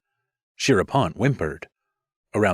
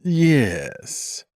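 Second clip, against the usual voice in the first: soothing; 7 semitones higher than usual. Acted. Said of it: "Gorde answered soothingly".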